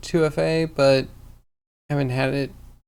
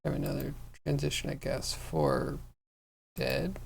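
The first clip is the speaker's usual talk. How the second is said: talking through hiccups; hiccuping; 6 dB quieter than usual. Real, not acted. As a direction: hiccups breaking the words. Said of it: "Excuse me, I have the hiccups".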